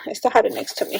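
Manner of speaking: breathy whisper to herself; whispered aside. Real, not acted. Vlogger checking her desk, whispered aside. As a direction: mutter it under the breath.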